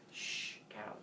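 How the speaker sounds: whispered shush; hushing. Acted. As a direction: shush them softly so no one wakes. Baby hushes cows past sleeping mom.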